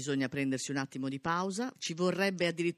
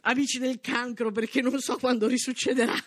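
excited; 8 semitones higher, 5 dB louder than usual. Real, not acted. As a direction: proclaim it with real excitement. Celebrating Cancer at first place.

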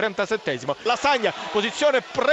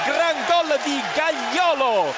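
goal shout; 4 semitones higher, slower than usual. Real, not acted. Goal call on radio.

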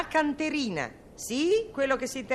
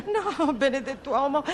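laughing exasperation. Acted. Laughing at Pappagone's silly answer.

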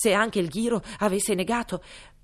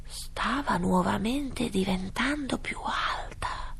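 ordinary delivery

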